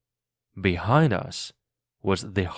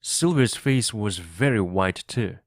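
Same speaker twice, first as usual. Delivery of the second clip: ordinary delivery, nothing marked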